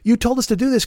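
high, baffled redneck whine; confused rednecks. Retold or imitated. Mocking confused rioters at Trump, high baffled whine. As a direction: squeal it like betrayed dupes. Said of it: "They're like".

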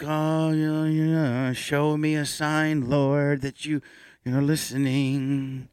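lightly voiced pleading priest, slow; mock praying priest. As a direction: beg the Lord for a sign, half-joking. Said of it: "he might have been like".

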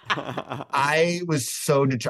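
slow and laughing. Real, not acted. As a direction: laugh through the words.

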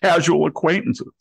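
hammed-up innocent denial from the FBI director; mock straight face. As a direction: deny it with an exaggerated straight face. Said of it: "say with a straight face".

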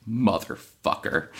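lightly voiced stern superhero, slowly drawn out; a hint of superhero deadpan, taken slowly; Batman. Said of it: "leans forward in a perfect Batman".

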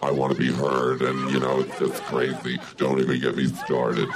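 lightly voiced tough devil, feminine. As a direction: play a devil with a feminine lilt. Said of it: "It's a devil, but he has a feminine voice".

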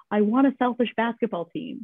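put-on a light, half-hearted Australian accent; a hint of an Australian accent on a quoted line. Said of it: "she says in her beautiful Australian accent".

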